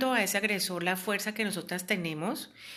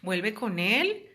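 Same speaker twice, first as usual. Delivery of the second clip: pushy relative. Retold or imitated. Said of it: "que yo escucho a veces".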